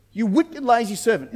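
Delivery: firm mock-master telling-off; sharp rebuke. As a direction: repeat the condemnation briskly and firmly. Same rebuke repeated higher, quicker.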